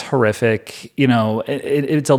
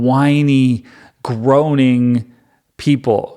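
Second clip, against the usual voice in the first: exasperated, put-upon griping; mild mock gripe, drawing out the insults; comic complaining; 2 semitones higher than usual. Moses complains to God about the people, in mock exasperation. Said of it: "he already was complaining about this".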